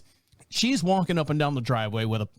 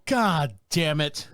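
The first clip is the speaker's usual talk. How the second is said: frustrated; 3 semitones higher, slower than usual. Retold or imitated. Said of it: "and I go".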